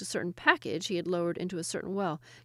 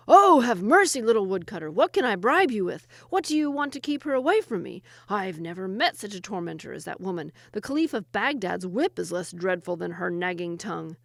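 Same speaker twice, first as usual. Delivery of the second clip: panicked jinni; 7 dB louder than usual. Acted. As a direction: beg for mercy in terror.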